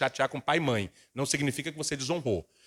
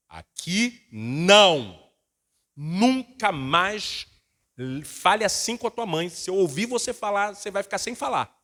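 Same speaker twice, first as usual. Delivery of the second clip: stern scolding; 3 semitones higher, 3 dB louder than usual. Retold or imitated. Father sternly scolding his son for talking back. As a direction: lay down the law to the son.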